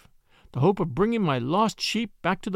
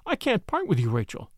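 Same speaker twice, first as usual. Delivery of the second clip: pleading. Acted. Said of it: "I pleaded".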